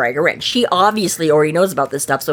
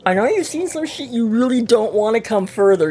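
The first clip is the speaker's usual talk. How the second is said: earnest warning; 5 semitones higher than usual. Retold or imitated. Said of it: "He's like".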